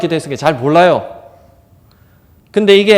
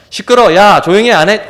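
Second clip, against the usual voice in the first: louder, snapping at the beggar to shut up; bullying shout; 3 semitones higher, 6 dB louder than usual. Retold or imitated. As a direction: shout him down. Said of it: "윽박지르면서".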